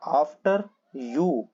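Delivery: "after you" stretched out very slowly for learners; slow, careful "after you"; slow demo. Shown as a demonstration. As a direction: spell out each word of "after you" slowly. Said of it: "teacher models the phrase slowly".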